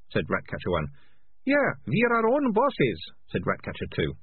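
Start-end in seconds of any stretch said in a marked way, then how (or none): 1.4-3.0 high, slow boasting thug voice. A narrator's reading. Ratcatcher Two boasting to the kids, high voice. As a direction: brag it up high.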